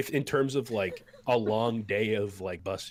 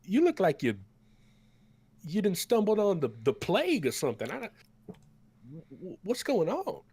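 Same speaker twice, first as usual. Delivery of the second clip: put-on much higher, louder folksy old cook voice; 9 semitones higher, 5 dB louder than usual. The cook hands bowls to the battered party, high and folksy. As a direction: play the big cook fussing over them. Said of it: "he's like".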